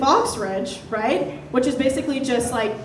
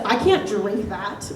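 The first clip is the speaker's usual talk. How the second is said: slow, deadly serious refusal; suddenly sober; 3 semitones lower, 3 dB quieter, much slower than usual. Retold or imitated. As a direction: say it slowly like he's suddenly sober. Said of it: "he almost, like, sobered up to say that".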